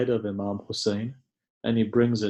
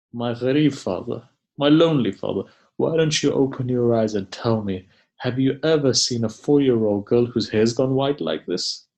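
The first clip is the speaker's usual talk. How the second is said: raised, pleading lament to a father; retold child's plea, pitched up in grief; grieving plea; 2 semitones higher than usual. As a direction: implore a father who will not answer. Orphaned daughter pleads with dead father.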